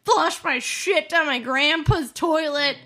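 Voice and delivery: loud exasperated rant; heated family shouting. Real, not acted. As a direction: vent it loud and high. Heated rant about the plunger.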